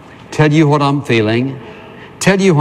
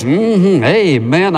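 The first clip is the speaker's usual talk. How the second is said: mock-eager mm-hmm, amen, as if hearing it first; feigned fresh interest; 4 semitones higher, much slower than usual. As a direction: play along warmly with a story you've heard ten times. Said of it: "made him feel like I'd heard it for the first time".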